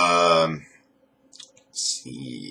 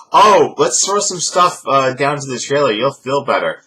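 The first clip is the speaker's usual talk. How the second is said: mock cheerful; 6 semitones higher, 5 dB louder than usual. Mocking their packing.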